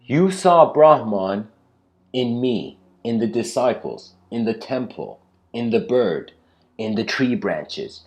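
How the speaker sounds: building, high and loud teacherly rebuke; guru's lesson. Retold or imitated. Guru lays out the lesson to the angry disciple, rising rebuke. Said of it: "And the guru says".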